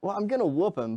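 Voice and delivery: high-pitched, unconvincing threat; lacking bass. Real, not acted. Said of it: "Put some bass in your voice".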